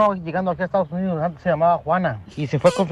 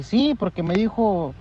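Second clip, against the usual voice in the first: slow, earnest explanation; slow and sure of herself; naive; slower than usual. Retold or imitated. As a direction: spell it out slowly like it's obvious. Naive woman explains slowly.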